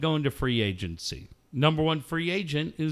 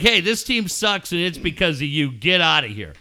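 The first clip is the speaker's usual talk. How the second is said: harsh firing; 3 semitones higher, 3 dB louder than usual. Acted. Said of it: "or you can be harsh".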